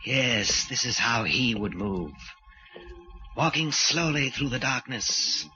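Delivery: brooding soliloquy with long pauses; stalking killer. Acted. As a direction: savour each word as you hunt. Killer stalks, narrating to himself.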